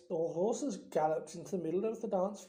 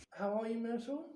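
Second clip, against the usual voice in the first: falsely bright; 4 semitones higher, 4 dB quieter than usual. Acted. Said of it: "in a falsely bright voice".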